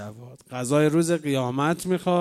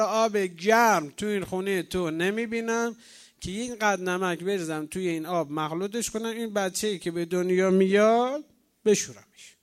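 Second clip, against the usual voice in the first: nagging midwife; 3 semitones higher than usual. Retold or imitated. Midwife complaining to the sheikh about the bare house, nagging. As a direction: complain insistently, with mild exasperation. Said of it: "اینقدر غر زد بهش".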